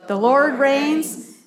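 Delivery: slow and weighty, every word given its own beat; slow unison recitation. Shown as a demonstration. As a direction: lead the congregation, leaning on "Lord". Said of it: "Say it".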